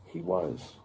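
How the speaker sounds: low whisper; whispered reveal. A narrator's reading. Narrator's hushed story reveal.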